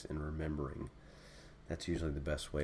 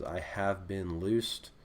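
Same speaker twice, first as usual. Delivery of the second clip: half speed, each word drawn out, rising at the end; slow demo reading; much slower than usual. Shown as a demonstration. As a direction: lay the translation out slowly for students. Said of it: "basic translation is".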